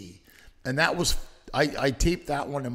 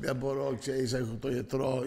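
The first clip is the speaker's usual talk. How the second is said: guilt-tripping mom; 3 semitones lower, 5 dB quieter than usual. Retold or imitated. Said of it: "she's like".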